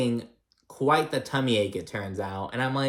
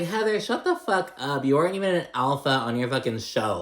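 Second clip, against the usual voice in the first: exasperated retort; 3 semitones higher than usual. Retold or imitated. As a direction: roll your eyes at Heather. Vlogger mocks Heather's alpha remark.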